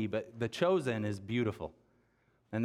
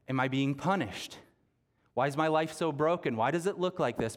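anguished questions; 3 semitones higher than usual. Retold or imitated. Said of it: "feel all the angst of".

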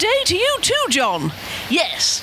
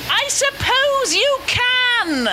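higher, slow, every word spelled out; slow, loud for the deaf; 5 semitones higher, much slower than usual. Real, not acted. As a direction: drag it out so he hears.

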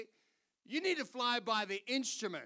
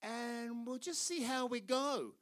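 quoted pilot. Retold or imitated. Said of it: "She's like".

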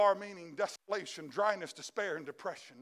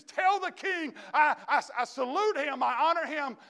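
laughing plea; 5 semitones higher, 4 dB louder than usual. Acted. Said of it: "he goes to me and says".

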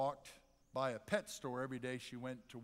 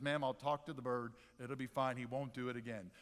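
lower, softening reassurance; placating shop owner; 3 semitones lower than usual. Acted. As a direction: soothe an angry customer, mildly. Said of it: "He says".

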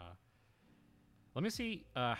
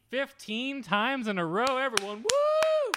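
much higher and louder, hyped announcer; excited announcing; 12 semitones higher, 10 dB louder than usual. Real, not acted. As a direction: cheer the record to everyone. Cheering a record streak.

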